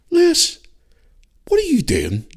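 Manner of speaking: dad telling off his son in mock outrage; mock scolding. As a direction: scold him in half-joking disbelief. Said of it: "And I went".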